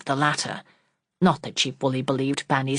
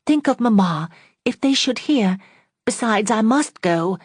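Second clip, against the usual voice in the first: higher, louder, urgent insistence; vehement; 7 semitones higher, 4 dB louder than usual. Acted. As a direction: insist on going, pressing hard. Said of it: "said she vehemently".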